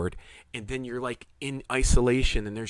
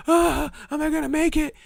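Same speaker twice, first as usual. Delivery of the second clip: retold panic. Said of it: "and you're like".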